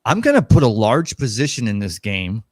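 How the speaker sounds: smooth gambler voice. Acted. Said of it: "Did I sound like a gambler?".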